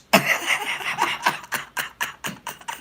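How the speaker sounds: high, breathy burst of real laughter; helpless laugh, squeaking high. Real, not acted. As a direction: lose it completely at the joke. Cracks up at father's reply.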